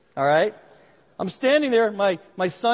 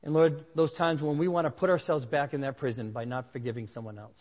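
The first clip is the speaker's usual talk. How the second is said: closing prayer; 3 semitones lower than usual. Real, not acted. Pastor prays over the congregation, earnest and sincere. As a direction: pray it sincerely over the room.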